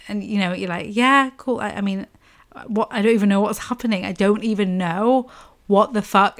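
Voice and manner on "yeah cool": mock breezy reply. Her own dazed reply, retold.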